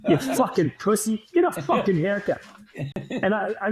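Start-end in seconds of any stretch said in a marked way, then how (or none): 0.1-2.4 mock Boston accent, yapping from the bench; lightly put-on Boston accent; Boston accent heckle. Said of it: "Boston accent is going".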